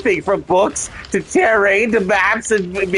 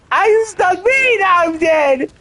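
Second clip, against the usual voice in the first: even higher yelp of outrage; high outcry; 11 semitones higher than usual. Real, not acted. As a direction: squeal it again, more upset. Dying in game, crying out.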